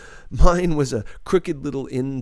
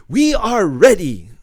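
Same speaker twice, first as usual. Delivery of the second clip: high, loud, firm announcement; a hint of a firm declaration; 8 semitones higher, 9 dB louder than usual. A narrator's reading. Dika telling the family they can leave, a firm, loud declaration. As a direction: declare it like a proud old woman, lightly voiced. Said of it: "Dika declared".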